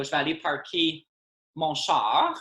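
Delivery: parquer said like English park, char for car; slangy Quebec French with parquer as park; Quebec franglais example. Shown as a demonstration. Explaining Quebec slang to an interviewer, said casually. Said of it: "franchise the parking word".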